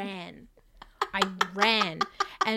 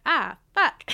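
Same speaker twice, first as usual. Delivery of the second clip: louder mock groan; mock dismay; 7 semitones higher, 9 dB louder than usual. Telling her friend she reacted to the emoji again. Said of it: "And I was like".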